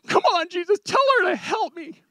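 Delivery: high-pitched mock whine; comic, high complaining voice; Martha. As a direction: whine and complain like a put-upon sister. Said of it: "in her w-, whining and complaining".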